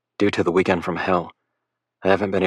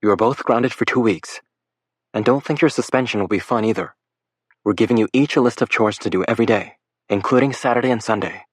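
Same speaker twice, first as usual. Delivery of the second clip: faked motherly tone; 4 semitones higher than usual. Lake scolding the boys as a pretend parent, lightly stern mother. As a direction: lecture them like a firm mom. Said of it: "in a superbly faked motherly tone".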